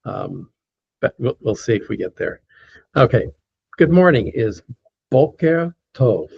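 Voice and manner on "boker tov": boker tov slow, in two separated words; slow teacher's demo of boker tov; careful model pronunciation. Shown as a demonstration. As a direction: draw out boker tov for learners, attending to the R. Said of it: "There's another R in there".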